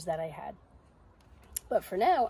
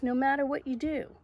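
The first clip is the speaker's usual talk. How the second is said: higher, insistent reminder; little doubting voice; 6 semitones higher, 5 dB louder than usual. Acted. Little voice refusing to leave Zoe, insistent. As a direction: press the point in a raised voice. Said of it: "says the voice".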